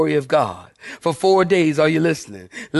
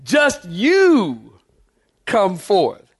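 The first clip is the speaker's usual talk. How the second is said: drawn-out command, easing down at the end; commanding summons; much slower than usual. Acted. Preacher acts Jesus singling out Lazarus, commanding. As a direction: stretch it out with authority.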